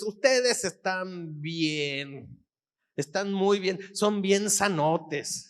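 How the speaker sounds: drawn-out sarcasm, words slowly stretched; sarcastic. Retold or imitated. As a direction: tell them slowly, with sarcasm. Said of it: "se puede utilizar el sarcasmo". (sarcasmo, palabras alargadas)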